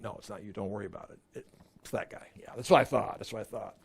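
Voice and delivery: a mild hint of Jesus calming the disciple; soft reassurance.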